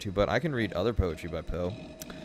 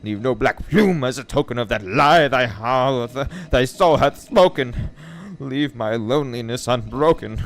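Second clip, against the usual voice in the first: loud, raised, furious verse delivery; shrieked recital; 4 semitones higher, 8 dB louder, slower than usual. Acted. Narrator ordering the raven out of his chamber, shrieking. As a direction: cry out the lines, building to a shout. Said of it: "I shrieked, upstarting".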